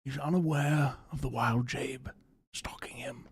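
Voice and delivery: a hint of wildlife narrator; hushed nature documentary.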